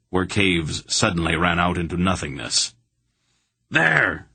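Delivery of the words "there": high, raised cry of discovery; distant shout. A narrator's reading. A Murgo spots the fugitives, shout. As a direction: call out as if spotting prey. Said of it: "a shout came from overhead".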